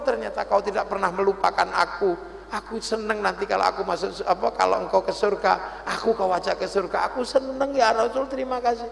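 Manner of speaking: hushed grateful confession; tender gratitude. Acted. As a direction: thank him quietly, deeply relieved. Grateful man answers the Prophet.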